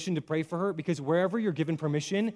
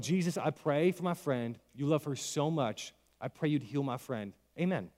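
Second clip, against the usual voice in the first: slow, softer everyday praying voice; simple, unforced prayer; 3 semitones lower, 5 dB quieter than usual. Shown as a demonstration. Man praying for a Walmart stranger's pain, simple soft prayer. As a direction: pray gently without pushing, like talking to someone close. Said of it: "I do it really simply. I pray just like this".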